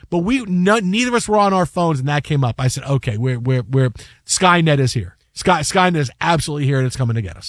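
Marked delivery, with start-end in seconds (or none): 2.8-7.5 low-pitched, mildly paranoid declaration; understated doom; grave mock warning. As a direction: announce the threat in a lowered voice. Acts own alarm about Skynet.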